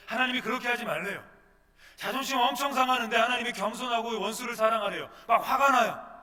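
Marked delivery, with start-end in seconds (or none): 2.0-6.1 loud, high, heated sermon climax; full-force preaching. Acted. Preacher rousing congregation, loud and heated. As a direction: preach it with rising heat.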